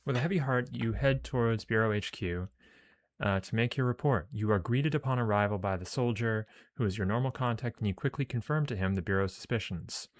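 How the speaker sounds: measured read-aloud of game text; story narration. Acted.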